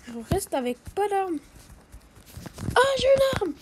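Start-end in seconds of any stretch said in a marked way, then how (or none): 2.8-3.5 « arme » lancé bien plus haut et fort, ravi; cri joyeux. Real, not acted. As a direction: exulter en découvrant l'arme. Trouve enfin une arme. (s'exclame, ravi, d'avoir trouvé une arme)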